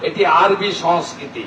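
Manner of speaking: emphatic political oratory with pauses between phrases; rally speech. Real, not acted. Politician rallying a crowd to defend Bengali culture, declamatory.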